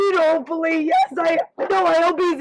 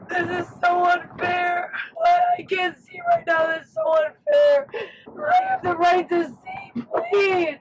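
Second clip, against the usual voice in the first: desperate. Real, not acted. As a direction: wail that it's unfair. Player crying out unfairness.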